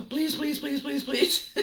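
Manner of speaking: begging the universe through laughter; laughing desperate pleading. Retold or imitated. Driver praying as the car roars, laughing plea. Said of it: "you start praying randomly to everything".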